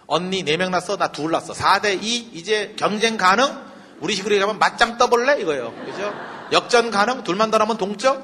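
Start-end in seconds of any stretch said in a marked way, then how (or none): 0.1-5.4 cocky rivalry. Retold or imitated. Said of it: "라헬의 멘탈리티". 6.5-8.2 cocky taunt. Retold or imitated. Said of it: "막 이랬다고요".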